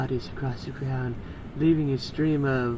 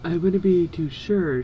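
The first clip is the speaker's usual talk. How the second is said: a louder, sure-of-herself comeback; retort; 3 semitones higher, 5 dB louder than usual. Acted. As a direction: throw the doubt right back at him. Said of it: "she retorted".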